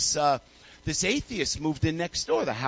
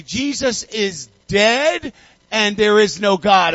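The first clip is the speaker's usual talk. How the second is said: angry yell; 6 dB louder, slower than usual. Retold or imitated. Angry atheist yelling at grandma.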